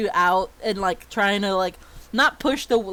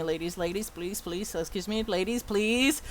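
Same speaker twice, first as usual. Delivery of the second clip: pleading. Acted. Teacher pleading through a crowd.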